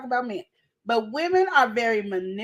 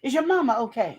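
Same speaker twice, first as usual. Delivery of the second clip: sly coworker, laughing. Acted. Coworker probing about home, laughing mid-line. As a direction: fake concern breaking into laughter. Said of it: "she slithered on in there".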